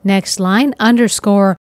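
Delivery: reading code aloud word by word, with long pauses; dictating. Shown as a demonstration. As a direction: spell out each token slowly for typing. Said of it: "here we'll type the following code".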